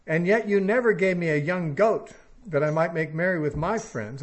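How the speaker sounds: put-on a resentful older son airs his grievance; complaining son. Older son protests loudly to his father, aggrieved. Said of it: "He's complaining".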